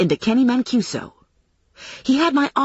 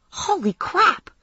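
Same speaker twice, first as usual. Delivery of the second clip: high, drawn-out astonishment; high-pitched stunned exclamation; amazed; 11 semitones higher, slower than usual. Acted. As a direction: stretch it out in disbelief. Friend amazed after the chase.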